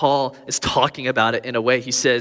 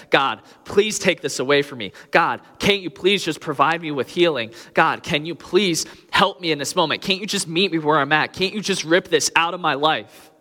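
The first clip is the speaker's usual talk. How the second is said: pleading prayer; 6 semitones higher than usual. Retold or imitated. Voicing a desperate prayer to God.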